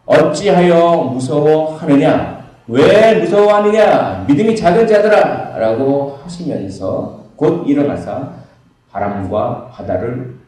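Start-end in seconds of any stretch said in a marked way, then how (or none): 0.0-5.6 slow, loud and high, commanding; stern rebuke. Acted. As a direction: scold the fearful disciples with authority. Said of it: "이렇게 말씀하십니다".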